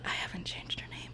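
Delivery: quick confessing whisper. Real, not acted. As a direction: whisper it like a secret. Confessing a secret aside.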